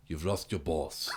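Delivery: slow, soft, wooden line reading; imitating a stiff action hero; bad acting. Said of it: "No one else could deliver it like that".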